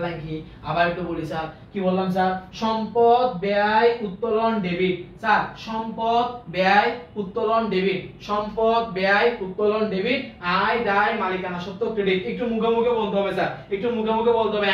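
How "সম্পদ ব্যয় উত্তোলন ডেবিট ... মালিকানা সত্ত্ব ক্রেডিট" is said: slow, emphatic chant, word by word; drawn-out recitation with punched words; call-out drill. Shown as a demonstration. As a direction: call it out for the class to repeat. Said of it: "এমন ভাবে চিল্লায় বলবেন".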